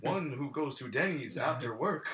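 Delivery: slow, solemn mock chief naming. Co-host riffing on the chief naming, slow mock voice. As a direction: intone it like a chief naming someone. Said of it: "Native American chief".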